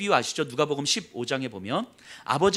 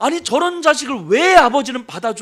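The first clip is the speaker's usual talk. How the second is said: loud, indignant, angry griping outburst; 8 semitones higher, 8 dB louder than usual. Retelling the older son's reaction to his brother's return, imitating an angry complaint. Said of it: "하면서 막 화를 내는 거예요".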